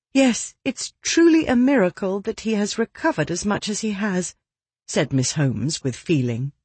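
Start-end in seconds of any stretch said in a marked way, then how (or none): 0.1-4.4 put-on higher-pitched young lady. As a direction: voice Miss Holmes a touch higher. Narrator voices Miss Holmes.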